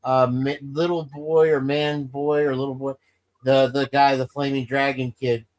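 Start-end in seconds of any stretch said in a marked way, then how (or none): none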